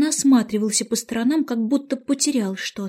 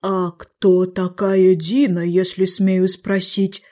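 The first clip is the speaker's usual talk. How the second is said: slow, ceremonious figure; Lori the bird; 3 semitones lower, slower than usual. A narrator's reading. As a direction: inquire politely, drawing the words out. Lori politely questions Alice. (медленно, церемонно спросить)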